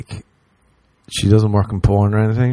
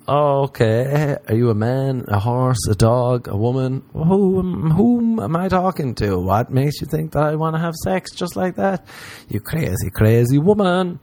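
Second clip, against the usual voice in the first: mock incredulous reply; 5 semitones higher than usual. Mock reply to crazy fan.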